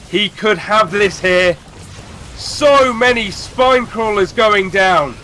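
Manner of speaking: rising hype, clipped five-word calls; excited casting. Pretend. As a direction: cast the fight fast and hyped. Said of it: "Five word sentences".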